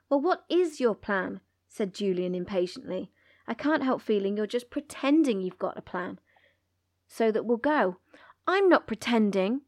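put-on reading a children's book aloud with lively character voices; storybook reading with feeling; story reading. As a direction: act out the quarrel as you read. Reads the book passage aloud.

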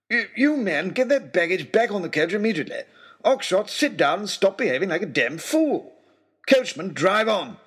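high, loud barked orders; furious commands. Acted. Lord Daunt ordering the men and Oxshott, furious. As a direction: take command, seething.

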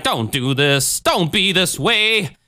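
lightly imitated preacher's plea; drawn-out mock imploring; Jim Jones. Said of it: "Jim's all trying to be like".

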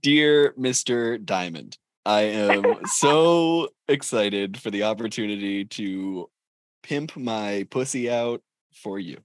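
slow, prim cover-letter read; lightly hammed-up formal letter reading; mock formal letter. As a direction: read it like a proper job application.

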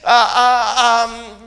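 a choked sob breaking into the sermon; crying gasp. Real, not acted. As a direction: let the voice catch on a sob. Preacher's voice breaks mid-sermon.

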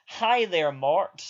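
bright, high customer-service greeting; chirpy phone-operator politeness; call centre voice. Retold or imitated. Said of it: "I had to put on my call centre voice for him".

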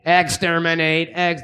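slow, clipped robot chant; Dalek voice. Retold or imitated. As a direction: intone it like a robot. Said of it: "they're like".

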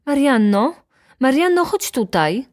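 high, loud summons; calling out. A narrator's reading. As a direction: call the maid from another room. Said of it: "zawołała ze swego pokoju baronowa". (wołanie z drugiego pokoju)

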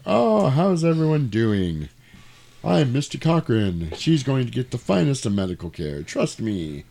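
a touch of oily reassurance; lightly voiced smooth villain. Factory owner calming the onlookers, lightly oily.

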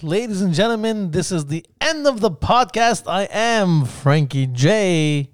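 booming announcer outro, slowed at the end. Acted. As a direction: hype it up like a radio DJ. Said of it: "Like his D J voice".

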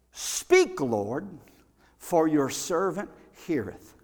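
slow, reverent speak Lord with pauses; humble prayer. Shown as a demonstration. Preacher showing the right prayer, slow and reverent. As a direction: lay it down humbly before the Lord. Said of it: "See, we've got that mixed up".

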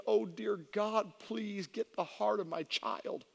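understated imitation of crying while praying; retold tearful prayer. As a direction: draw out a desperate prayer, mildly tearful. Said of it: "literally crying and saying".

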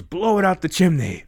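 high, put-on voice of the source. The source answering how to feed energy back, high put-on call. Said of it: "And it goes".

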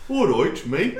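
put-on laughing, botched Brummie accent; badly faked Brummie greeting. Echoing a friend's greeting, bad Brummie accent. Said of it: "That was like a Brummie accent, but not even a good one".

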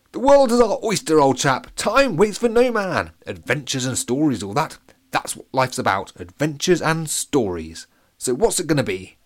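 put-on high, loud, jolly old-fashioned officer; rally him like a posh soldier from olden times; badgering posh captain. The captain badgers Pete into adventure, loud and jolly. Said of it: "badgered the captain".

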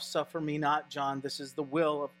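calm a frightened cousin; hushed and tender Jesus saying trust me. Retold or imitated. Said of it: "proclamation that comes from Jesus".

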